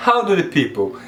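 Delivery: HOW DO THE PEOPLE joined up as one word; natural linking. Shown as a demonstration. Teacher showing students natural connected speech, linked. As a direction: link "How do the people" smoothly, no gaps. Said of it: "Perceba como fica mais natural".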